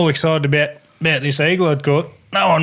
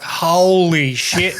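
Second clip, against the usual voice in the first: retold amazement; 2 semitones higher, much slower than usual. Retold mates' amazement at eagle.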